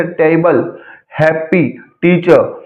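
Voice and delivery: "टेबल", "हैप्पी", "टीचर" stressed on the opening syllable; spaced examples "टेबल, हैप्पी, टीचर", first beat strongest. Shown as a demonstration. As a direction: model टेबल, हैप्पी, टीचर slowly, weight up front. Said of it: "पहले syllable पर stress आता है".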